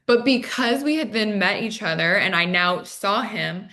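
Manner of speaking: ordinary talk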